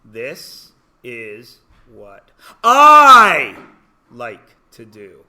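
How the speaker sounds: slow and low, each word drawn out. Shown as a demonstration. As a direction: spell it out slowly for the class. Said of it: "I'll say it again slower".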